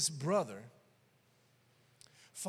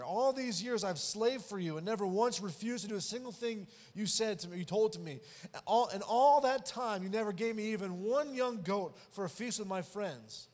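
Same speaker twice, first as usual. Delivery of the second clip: angry quote; 3 semitones higher, 4 dB louder than usual. Retold or imitated. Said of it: "this is in anger".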